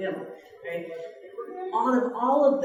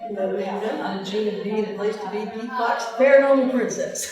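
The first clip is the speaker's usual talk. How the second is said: mock radio host intro, rising to a louder finish; 5 dB louder than usual. Shown as a demonstration. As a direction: announce yourself like on air. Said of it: "that's my name on my radio show".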